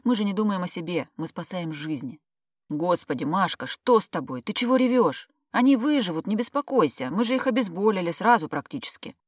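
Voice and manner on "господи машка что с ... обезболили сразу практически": alarmed. Acted. Colleague alarmed at crying friend.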